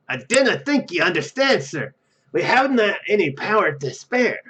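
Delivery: put-on amateur Scottish engineer accent, pitch jumping up; terrible Scottish accent. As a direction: put on a hammy, unconvincing Scots accent. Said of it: "That was a terrible accent".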